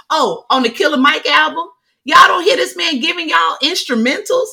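scolding fans over the instrumental album; exasperated rant. Real, not acted. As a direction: call them out in disbelief. Ranting at complaining fans.

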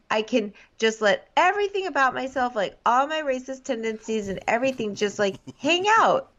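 mock baby talk. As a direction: babyish gushing, somewhat high. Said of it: "full on baby talk mode".

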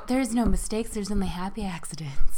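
lightly imitated soothing painter; mild, gentle reassurance in a teacher's voice; a touch of calm TV painter; Bob Ross. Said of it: "like, really soothing".

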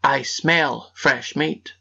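slow suspicious ogre, sniffing. Acted. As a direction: drag it out like a sniffing giant. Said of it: "sniffed suspiciously and said".

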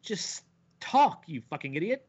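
high, exasperated outburst. Acted. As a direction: burst out in mock frustration at him. Mock outburst at Batman's stilted delivery.

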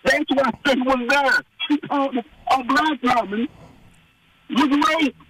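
a hint of a fed-up voter; outraged voter. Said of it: "those voters who are like".

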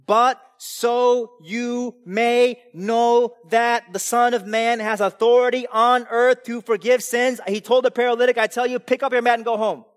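high, loud, drawn-out scripture proclamation; fiery preaching. Acted. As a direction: proclaim it slowly with full force. Preaching at full force.

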